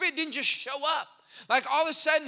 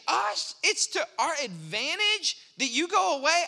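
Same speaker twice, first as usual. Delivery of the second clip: incredulous disbelief; 3 semitones higher than usual. Pretend. Pastor voices disbelief at Jesus' words.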